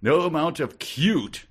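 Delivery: loud, high, slow mock outrage; infuriated. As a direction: spit out a hammed-up complaint. Acting the infuriated narrator.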